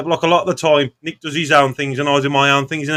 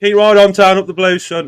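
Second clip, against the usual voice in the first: loud football sign-off; 3 semitones higher, 5 dB louder than usual. Real, not acted. Football sign-off chant to fans.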